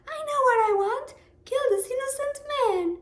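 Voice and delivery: put-on high, loud, fast bratty girl voice; sassy little girl. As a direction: snap it out like a spoiled girl demanding. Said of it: "I'm sassy".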